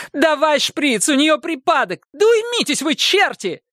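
high urgent commands; agitated nurse. Acted. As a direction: bark orders over the noise. Nurse orders in chaos.

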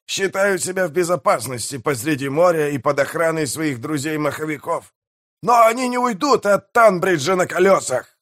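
high-pitched mayor voice, pleased with himself; gloating pirate mayor. Acted. Pirate mayor praises Tom and explains his plan, high gloating. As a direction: crow over the prey in a high voice.

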